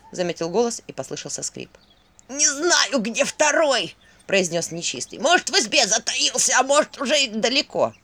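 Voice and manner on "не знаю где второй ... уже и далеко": higher, louder demon voice. Acted. Captured demon answers Vasilisa, higher louder voice. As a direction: answer as the trapped creature.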